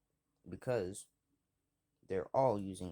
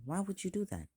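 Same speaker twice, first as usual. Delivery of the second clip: hurt question; 11 semitones higher, faster than usual. Retold or imitated. Hurt boy asks bully why.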